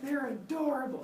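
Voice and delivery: high, gushing coo; doting mother. Acted. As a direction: coo lightly over your newborn babies. Mother Earth gushing over babies.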